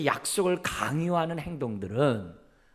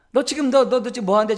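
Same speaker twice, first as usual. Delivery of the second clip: higher, louder exasperated parent; angry scolding; 10 semitones higher, 7 dB louder, faster than usual. Retold or imitated. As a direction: snap at the child in irritation. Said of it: "막 화가 나가지고". (화가 나서 아이를 다그치는 부모 목소리)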